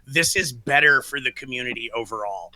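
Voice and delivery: hoarse from a sore throat; talking through a sore throat. Real, not acted. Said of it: "You sound really different".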